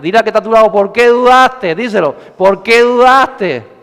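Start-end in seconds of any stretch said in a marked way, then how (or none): 0.7-1.7 slow, raised-voice reproach; higher, deliberate challenge; drawn-out rebuke. Shown as a demonstration. Leading congregation to repeat rebuke. 2.4-3.8 slow, raised-voice reproach; higher, deliberate challenge; drawn-out rebuke. Shown as a demonstration. Leading congregation to repeat rebuke.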